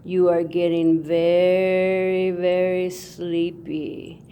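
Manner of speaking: slow, lightly hammed hypnotist drone. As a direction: lull them into handing over silver. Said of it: "is to hypnotize you".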